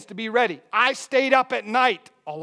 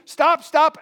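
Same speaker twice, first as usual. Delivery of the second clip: raised, forceful command; mock urgent shout; 7 semitones higher, 9 dB louder than usual. Preacher translating his threat to the thieves, raised shout. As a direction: shout it at fleeing thieves, half in earnest.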